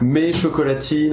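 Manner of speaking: slow, drawn-out bimbo voice; valley girl. Shown as a demonstration. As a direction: say it like a snooty airhead. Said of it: "faut le dire avec une voix de pétasse".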